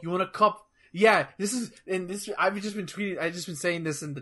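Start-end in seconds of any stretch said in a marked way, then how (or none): 0.0-0.7 mock Boston accent. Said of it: "basically she talks like she's from, like, Hod Boston".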